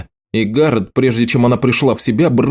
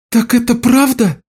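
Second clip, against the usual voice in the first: a shocked cry pitched far higher; exclaimed; 12 semitones higher than usual. A narrator's reading. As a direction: disbelief bursting out. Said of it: "вскричала Лиша".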